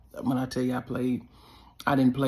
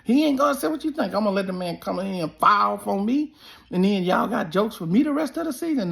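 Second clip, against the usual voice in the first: retold defiance; 5 semitones higher than usual. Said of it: "I said".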